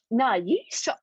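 real voice crack jumping up in pitch. Real, not acted. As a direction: let the voice break upward mid-phrase. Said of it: "God, the voice crack".

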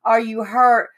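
retold motherly alarm; incredulous worried mother. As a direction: fire worried questions at him. Mother retells grilling son after crash.

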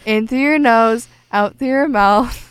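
imitating mom. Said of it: "as my mom says".

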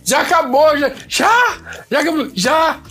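high, incredulous questions; mock surprise. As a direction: act stunned that it's over already. Surprised narrator mocks the early end.

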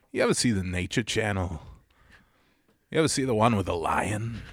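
lighthearted opening in a halting impression; soft, casual storytelling in the actor's cadence; Christopher Walken. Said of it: "starts off the conversation all lighthearted like that".

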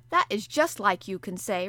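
the harpooner retorting to Conseil; impatient retort. Acted. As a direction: snap back at the calm servant. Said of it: "retorted the impatient Canadian".

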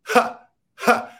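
sharp, voiceless bursts of breath; demonstrated gasps, "ha"; imitated involuntary gasp. Shown as a demonstration. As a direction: force the air out in two sudden puffs. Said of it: "expels air out of your body".

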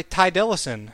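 A rapper's name botched as "Ty Dillison"; quoted misreading, "Ty Dillison"; mispronounced name. Retold or imitated. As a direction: run it together as one surname, "Ty Dillison", stressed on the first syllable of Dillison. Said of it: "I can't say his name without laughing".

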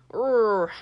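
loud growling roar; werewolf roar. Acted. Werewolf warning the group, roaring. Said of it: "growl and gesticulate urgently".

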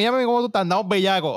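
high, mock-eager booty-call line; imitating Jack Me. Friend mimicking Jack Me's late call, high and playful. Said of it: "Jack Me siempre que anda bellaco lo dice".

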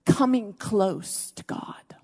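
slow whisper. Acted. Preacher hushing the congregation, slow whisper. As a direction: breathe it slowly, barely voiced.

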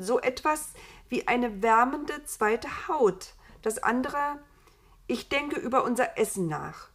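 thoughtful, eager Eva. Acted. Voices Eva listing her ideas. (leicht erhöhte, eifrige Eva-Stimme)

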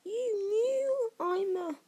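halting, high-pitched astonishment; astonished boy. A narrator's reading. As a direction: stumble over the news, then lift the last word. Harry reacts in astonishment.

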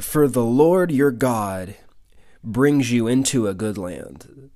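slow, weighted reading, leaning on Lord; slow emphatic reading. Real, not acted. Preacher flags a key verse to the congregation, slow and weighty. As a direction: let each word of the promise land. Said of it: "Watch this part".

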